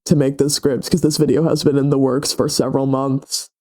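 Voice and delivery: congested, stuffy voice; stuffy nose. Real, not acted. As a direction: talk through a head cold. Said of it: "sorry if I sound really stuffy".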